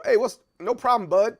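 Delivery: snide, needling "no problem, bud"; a mildly condescending brush-off; jerky greeting. Retold or imitated. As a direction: say it to get under their skin. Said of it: "I'm trying to be a jerk and offensive".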